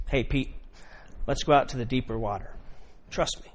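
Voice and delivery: soft calm invitation; a quiet, trusting ask; gentle Jesus. Acted.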